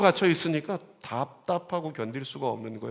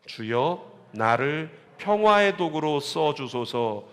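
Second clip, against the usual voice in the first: slow lyric reading; much slower than usual. Shown as a demonstration. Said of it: "가사 한번 읽어볼까요?".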